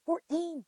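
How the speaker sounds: repeating the number for the host in disbelief; stunned repeat. Real, not acted. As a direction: let Fourteen land as a shocking number. Stressing brother's shocking A1C.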